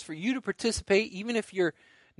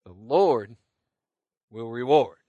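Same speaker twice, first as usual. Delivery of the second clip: firm, louder call-and-response line; 5 semitones lower, 8 dB louder, slower than usual. Shown as a demonstration. Pastor to viewers at home, leading a firm refrain. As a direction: lead the congregation in the refrain. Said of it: "I want you to say it with me".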